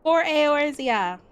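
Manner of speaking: rallying cry. Acted. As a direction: proclaim it high and loud, stretched slow.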